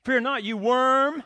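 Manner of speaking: a hint of a stern God. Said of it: "Look what he says".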